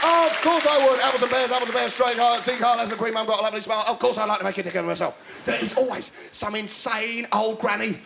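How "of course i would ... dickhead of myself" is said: fast, hammed-up cockney patter; lovable cockney. Cockney agreeing to Esther's offer, hammed-up cockney. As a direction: gabble it as an eager cockney. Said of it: "Are you a lovable cockney?".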